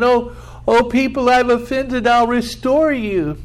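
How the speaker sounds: high, begging voice of a remorseful thief; pleading thief. Acted. A thief begging the judge for mercy, pitched high.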